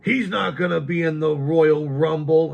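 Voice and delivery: high, loud quote of a doubter; loud retold dismissal. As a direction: imitate a friend flatly ruling it out at full volume. Acting out friend's scornful dismissal.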